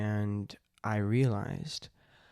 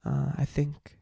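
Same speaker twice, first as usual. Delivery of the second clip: slightly raised voice, a little float on words; lightly voiced halfling with a lilt; floaty character voice; 3 semitones higher than usual. Shown as a demonstration. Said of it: "have a little bit of a float".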